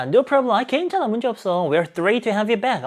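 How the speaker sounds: teacher hamming up an excited friend. Acted. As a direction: gush with delight at her return. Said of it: "정말 신나가지고 막 얘기합니다".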